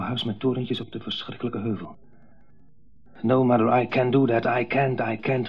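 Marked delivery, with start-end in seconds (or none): 3.2-5.5 cracking voice. Acted. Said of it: "riep hij met overslaande stem".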